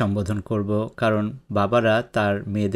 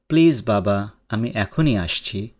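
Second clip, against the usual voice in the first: pleading. Acted. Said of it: "খুব আবদারি সুরে বলছে".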